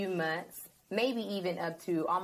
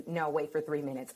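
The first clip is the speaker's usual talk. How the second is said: lower, calm instruction to wait; 4 semitones lower, 3 dB quieter than usual. Retold or imitated. God calmly telling the anxious host to wait, calm. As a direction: settle her rush with a calm wait. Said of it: "it's a calm voice".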